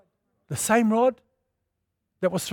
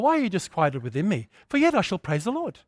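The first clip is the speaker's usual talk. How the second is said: gentle poetic; 4 dB quieter than usual. Retold or imitated. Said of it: "so he says it nice".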